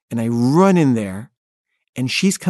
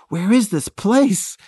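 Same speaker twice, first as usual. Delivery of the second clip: much higher and slow, a frantic wail; lost and out of time, cry it out; panicked; 9 semitones higher, slower than usual. Retold or imitated. Late, lost, panicking while driving.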